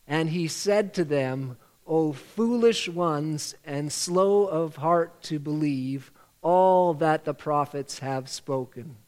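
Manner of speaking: slow, measured verse recitation; group recitation. Shown as a demonstration. Leader saying the verse together with congregation, slow recitation. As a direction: lead everyone through it, phrase by phrase, slowly.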